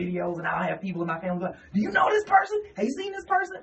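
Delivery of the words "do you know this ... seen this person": high-pitched imitation of curious relatives; eager questioning. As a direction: pipe up like a relative asking about someone. Voicing excited family members asking.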